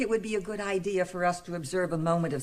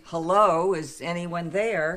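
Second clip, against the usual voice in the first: retold nervous call; 4 dB louder, slower than usual. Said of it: "All I did was say".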